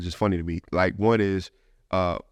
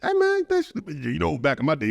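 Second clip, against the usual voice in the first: put-on old man voice; 4 semitones higher than usual. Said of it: "this is the official old man voice".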